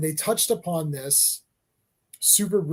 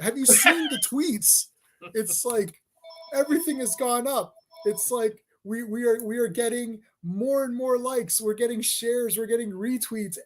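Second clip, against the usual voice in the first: higher, hammed-up corporate gushing with laughter; gushing fake praise; 5 semitones higher than usual. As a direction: oversell the praise, grinning through it. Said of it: "and it's like".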